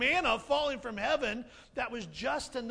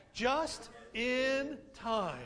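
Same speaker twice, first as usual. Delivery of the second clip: drawn-out call; much slower than usual. Shown as a demonstration. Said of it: "Can you say that?".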